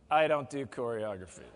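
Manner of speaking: low, mock inner voice; resistant inner voice. Speaker voices the audience's resisting inner voice, low and balking. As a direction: drop low for the balking voice in the head. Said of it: "Did you hear that voice say".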